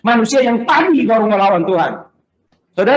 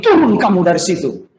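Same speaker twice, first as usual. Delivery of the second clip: ejekan menyuruh turun. Retold or imitated. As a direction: call out the order with a punchy first word. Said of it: "Ketika dia bilang begini". (menirukan perintah menantang)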